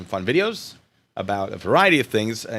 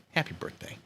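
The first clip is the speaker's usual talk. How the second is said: soft unvoiced whisper; 4 semitones higher, 11 dB quieter than usual. Shown as a demonstration. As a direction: whisper it like a secret. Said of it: "just happy birthday, guy".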